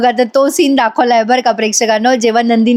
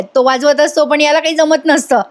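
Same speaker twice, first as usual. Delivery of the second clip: laughing; 4 semitones higher than usual. Real, not acted. Laughing at the whistling scene.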